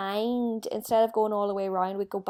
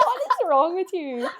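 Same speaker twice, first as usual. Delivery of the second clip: laughing quote; 10 semitones higher, 4 dB louder than usual. Retold or imitated.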